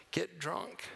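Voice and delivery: ordinary talk, nothing marked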